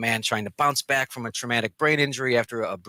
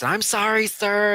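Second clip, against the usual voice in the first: higher, louder apologetic owner's voice; lightly voiced anxious woman; owner apologising; 8 semitones higher, 4 dB louder, slower than usual. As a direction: play the flustered dog owner saying sorry.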